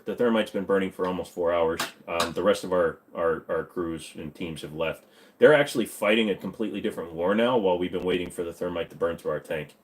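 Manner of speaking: low, soft report to a superior; mildly acted military status report; lightly voiced subordinate soldier. Crewman reporting on the burning thermite, subdued.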